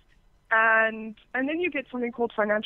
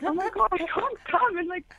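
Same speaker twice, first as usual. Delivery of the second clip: high-pitched, laughing protest; mock exasperation; 7 semitones higher than usual. Guest retelling her reaction to a demanding caller, exasperated. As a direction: protest in a raised, incredulous pitch.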